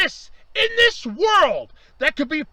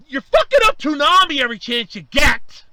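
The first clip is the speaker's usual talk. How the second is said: louder, cursing the network in real anger; angry outburst; 3 semitones lower, 5 dB louder than usual. Real, not acted. Fan venting at the network over Toonami cuts, loud and furious. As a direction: let the fury out at the network.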